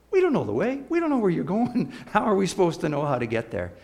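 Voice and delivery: lightly voiced confused Thomas; puzzled Thomas. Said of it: "And Thomas says".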